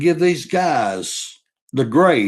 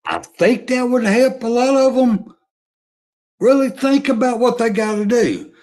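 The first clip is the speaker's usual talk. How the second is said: higher, building rant about scholarships; heated rant; 3 semitones higher than usual. Real, not acted. Fan rants at players entering the portal, heated. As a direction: climb on the soapbox and rant. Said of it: "I'm getting on a rant".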